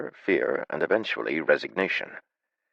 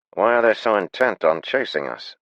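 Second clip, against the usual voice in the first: alarmed; 6 semitones higher, 5 dB louder than usual. Acted. Sven alarmed question.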